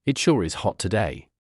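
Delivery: put-on old Gohan, tired from the heat, with a sigh; lightly voiced old hermit sighing in the heat; sighing old man. A narrator's reading. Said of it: "He sighed".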